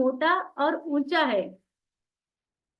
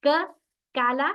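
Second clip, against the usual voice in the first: South Indian k; slower than usual. Retold or imitated. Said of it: "वो भी इसे क्या कहते हैं".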